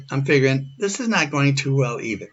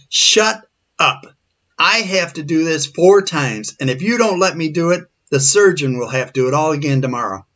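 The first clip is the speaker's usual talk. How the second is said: mock stern command, raised in pitch; imitating an impatient scolding, pushed up at the start; retold angry order; 3 semitones higher, 3 dB louder than usual. Retelling the man's angry order.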